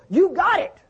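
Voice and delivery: high, lifted voice of God, affirming; God speaking to Moses. Acted. Preacher voicing God again.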